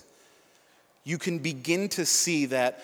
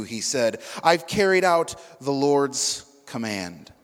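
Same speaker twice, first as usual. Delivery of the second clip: a steady, slightly raised Bible reading voice; scripture reading; 4 dB louder than usual. Acted. Preacher reading scripture to the congregation, steady and raised. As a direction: read the passage clearly to the room.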